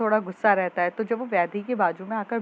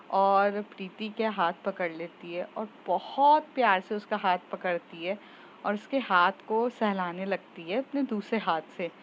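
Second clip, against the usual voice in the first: ordinary delivery, nothing marked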